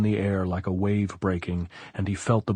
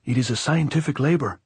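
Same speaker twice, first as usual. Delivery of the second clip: high, raised-voice call; shouting; 6 semitones higher, 4 dB louder than usual. A narrator's reading. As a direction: shout the explanation up the slope. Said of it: "Anselmo shouted".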